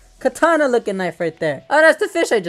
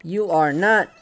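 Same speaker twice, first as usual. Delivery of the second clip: exasperated; slower than usual. Real, not acted. Scolds uncooperative fish while reeling.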